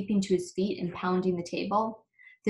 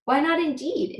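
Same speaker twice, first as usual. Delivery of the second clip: high, loud emphatic exclaim; 8 semitones higher, 6 dB louder than usual. Acted. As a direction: exclaim it with gusto. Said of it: "exclaimed the bud".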